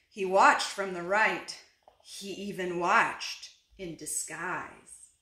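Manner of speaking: animated picture-book read-aloud; unhurried storybook telling; story narration. A narrator's reading. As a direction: read to little children, stressing key words.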